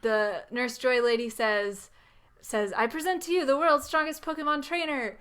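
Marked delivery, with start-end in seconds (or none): 2.8-5.2 grand introduction. Retold or imitated. Voices assistant presenting the champion.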